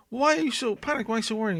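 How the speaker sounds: lightly hammed-up Mean Gene; Mean Gene impression. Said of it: "he says the whole thing".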